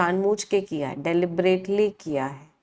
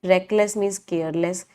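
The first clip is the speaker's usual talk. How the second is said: slow dictation; much slower than usual. Shown as a demonstration. Teacher dictating a definition.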